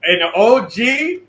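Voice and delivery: loud, hyped host welcome; excited intro. Real, not acted. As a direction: hype up the guest. Hyping up the guest.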